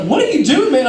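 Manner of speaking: puzzled roommate. Retold or imitated. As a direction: ask like a confused roommate. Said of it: "Swift was like".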